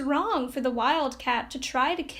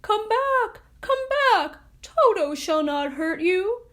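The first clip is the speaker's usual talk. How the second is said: louder, higher call after fleeing mice; 5 semitones higher, 4 dB louder, slower than usual. Acted. Tin Woodman calling the scattered mice back, loud. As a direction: call them back across the grass. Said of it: "he called to the mice".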